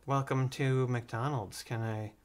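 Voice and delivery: drive-thru worker. Retold or imitated. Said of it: "comes up to the speaker and she says".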